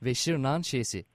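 slow, drawn-out final letter; spelling it out. Shown as a demonstration. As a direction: spell the last letter slowly. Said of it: "kodluyorum şimdi harfleri".

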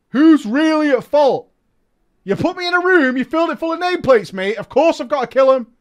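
loud, high indignant outburst; indignant rant. Retold or imitated. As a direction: rant defensively at the raid. Angry rant in player's voice.

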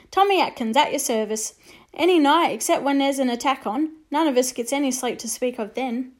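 chirpy soldier making light of the war; cheerful soldier. Acted. Soldier to the boy, cheerful and brisk. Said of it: "said the soldier cheerfully".

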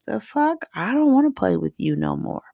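put-on high indignant kid voice on the first words; mock the child's outrage; imitating annoyed daughter. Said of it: "she's gonna be like".

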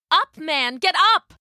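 high, forceful order; urgent rousing cry. Acted. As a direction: cry out to get a sleeper moving. Soldier rousing companion as danger comes.

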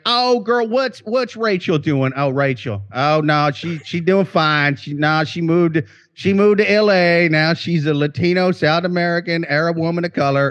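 lightly voiced Southern-mom chat with friends; hint of a mom gossiping over waffles; gossiping mother. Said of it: "I am just picturing her".

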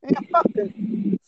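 slow, high, breathy whispered mimicry; sneering mock quote, slow and high; mock callous boyfriend. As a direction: voice him like a cartoon villain. Imitating boyfriend's callous line.

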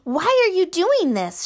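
put-on high, loud shout from a tiny boy. Measle shouting up at Basil, high and loud. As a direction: cry up at the giant. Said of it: "shouted Measle".

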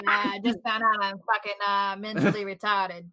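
rounded mock Australian accent; attempted Aussie accent. Woman playing along after being teased, attempted Aussie accent. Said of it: "Oh, there you go. That was close".

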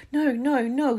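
put-on high, loud protesting girl; hasty denial. A narrator's reading. Hermione covering up to Neville, high loud denial. Hermione hastily denies going out.

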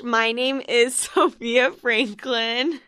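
slowed intro broken by a giggle; can't keep a straight face; laughing mid-intro. Real, not acted. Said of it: "I really need to stop doing that".

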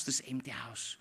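breathy whisper to an empty house. Acted. Preacher whispering to the house as God. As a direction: hush it right down to a whisper. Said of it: "God whispers to this house".

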